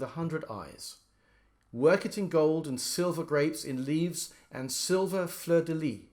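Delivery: reading the poem with heavy beats; poetry reading with strong metre; exaggerated stresses. Shown as a demonstration. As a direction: lean hard on every stressed syllable. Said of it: "I'm going to exaggerate the stresses a bit".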